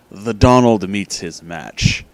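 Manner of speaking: slow, weighty title announcement; dramatic title read. Shown as a demonstration. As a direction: announce the title slowly, like a movie trailer. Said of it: "but this is".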